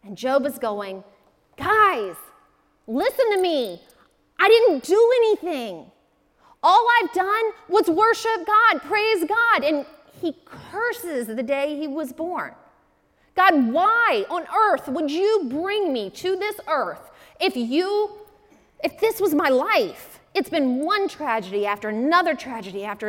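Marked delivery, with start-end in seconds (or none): 1.6-9.6 raised, higher pleading protest; pleading cry. Retold or imitated. Preacher voices Job begging his friends, loud and high. 13.3-20.2 high, loud, slow anguished question to God; anguished lament. Retold or imitated. Preacher voices Job crying out to God, loud and high. Job cursing the day born.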